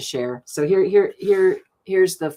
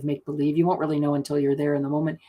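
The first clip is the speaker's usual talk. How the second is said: normal talking voice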